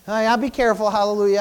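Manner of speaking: low, soft mumble under the breath; mumbling. Real, not acted. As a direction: mumble it to yourself, half swallowed. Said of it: "I'm just mumbling up here".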